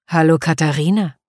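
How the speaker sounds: a hint of a deep menacing man. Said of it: "sagt er mit tiefer Stimme".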